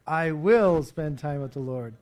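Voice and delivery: congregation repeats it aloud together. Shown as a demonstration. Pastor leads the church in a loud unison response. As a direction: say it back as one voice. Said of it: "Let's say it together".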